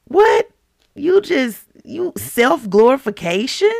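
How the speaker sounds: high-pitched incredulous sputter; mock outrage. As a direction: act stunned by the nerve of it. Mock outrage at Saul's vanity.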